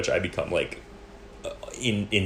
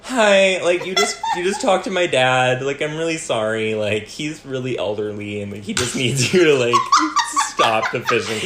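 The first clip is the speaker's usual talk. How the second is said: sweet polite voice; 4 semitones higher, 5 dB louder than usual. Retold or imitated. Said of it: "'Cause I was just, like, kind".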